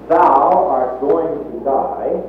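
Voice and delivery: "Thou" lifted and held, "Thou art going to die" said slowly; stress on thou. Shown as a demonstration. Preacher finger-pointing at a listener, "Thou" stressed slowly. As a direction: point at them and land on "Thou". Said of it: "I want to emphasize the word thou".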